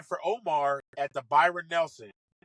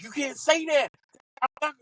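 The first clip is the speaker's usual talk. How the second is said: mock offended golfer; 11 semitones higher than usual. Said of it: "And he was like".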